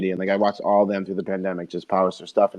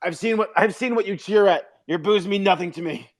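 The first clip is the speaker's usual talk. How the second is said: imitating Rick; 8 semitones higher than usual. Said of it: "Rick from Rick and Morty when he's like".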